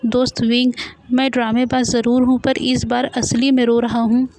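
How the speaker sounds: half-hearted weepy plea, mostly playful; crying. Acted. Boy insists to his friend he is really crying, mock tearful. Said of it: "रोते हुए".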